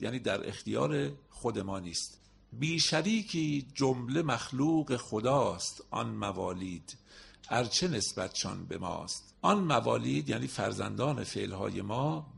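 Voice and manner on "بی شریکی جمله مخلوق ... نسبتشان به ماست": slow, measured verse reading; poem recitation. Acted. Teacher reciting a Masnavi couplet to the class, slow. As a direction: let the couplet unfold slowly.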